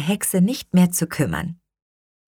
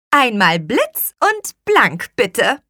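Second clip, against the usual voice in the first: slow, higher magic command; spoken spell; 5 semitones higher, 3 dB louder, slower than usual. A narrator's reading. Witch commands the cleaning rag by magic, slow higher spell. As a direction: give the order slowly with a lilt.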